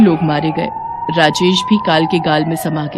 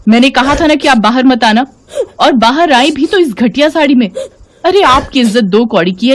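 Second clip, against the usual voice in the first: higher, louder furious scolding; drunken angry yelling; 4 semitones higher, 4 dB louder than usual. Acted. Drunk Seema yelling at her mother-in-law Savitri, furious. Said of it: "चिल्लाकर बोली".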